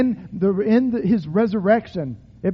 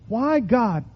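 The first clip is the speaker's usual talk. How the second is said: lament cry; 4 semitones higher than usual. Shown as a demonstration. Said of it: "Cry out. Shout out when you need to".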